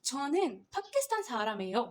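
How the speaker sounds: 저는 파키스탄 사람이에요 said at a steady, careful pace; Korean sentence demo. Shown as a demonstration. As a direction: model the full Korean answer. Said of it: "मैं खुद बोल के दिखाती हूँ".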